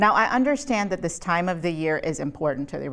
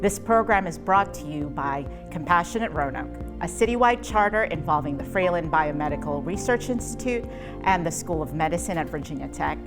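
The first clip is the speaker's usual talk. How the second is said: measured announcer-style welcome; scripted program intro. Acted. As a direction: read the series introduction as a polished host. Reads the scripted series introduction.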